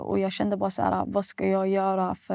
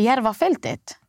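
retold, louder and higher, incredulous "Järvafältet?" with a falling end; shocked disbelief; 4 semitones higher, 5 dB louder than usual. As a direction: repeat the place like you can't believe it, rising into protest. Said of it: "Jag går från att vara chockad".

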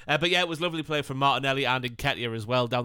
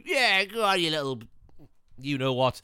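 goading Casemiro; 2 semitones higher than usual. Retold or imitated. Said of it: "Casemiro sort of, like, going".

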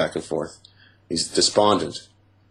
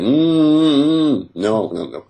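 muffled gagged protest; 7 semitones higher, 5 dB louder, slower than usual. Retold or imitated. Gagged, trying to say no.

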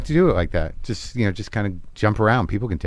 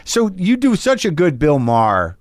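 upbeat morning DJ, pitched up; radio host voice; 4 semitones higher than usual. Pretend. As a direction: play the chirpy radio host. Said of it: "I'm still in character".

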